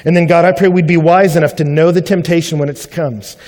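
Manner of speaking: earnest spoken prayer. Real, not acted. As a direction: pray it sincerely to God. Closing prayer.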